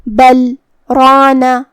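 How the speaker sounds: بل رانا with a short stop after بل and no breath; saktah pause. Shown as a demonstration. Teacher demonstrates the breathless saktah stop. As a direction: pause briefly on بل, then go straight on to رانا. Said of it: "ہمیں اپنی سانس یہاں بالکل نہیں لینا ہے".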